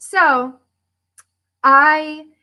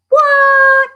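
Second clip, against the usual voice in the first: high, loud shocked yelp; mock astonishment, loud and high; shocked what; 8 dB louder than usual. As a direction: gasp it out in disbelief. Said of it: "That's what I'd say".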